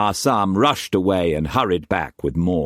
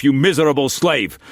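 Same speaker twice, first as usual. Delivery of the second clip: high, loud furious insult; raging insult; 8 semitones higher, 4 dB louder than usual. A narrator's reading. Struan cursing Mei Mei in fury, raging insult. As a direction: spit out miserable slave. Same insult, first take.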